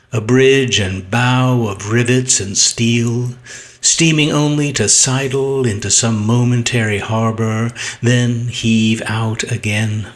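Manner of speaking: measured poetry reading, long held stresses; poem recitation. Acted. Poet reading a sonnet aloud to viewers, measured recitation. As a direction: recite it deliberately, pausing at phrase ends.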